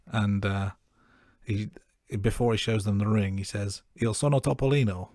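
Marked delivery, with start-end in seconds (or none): 4.0-5.1 put-on amateur Italian accent, a bit raised; a podcaster trying out his Italian; playful attempt at an Italian accent. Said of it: "is Italian for".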